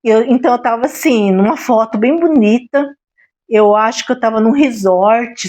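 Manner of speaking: ordinary delivery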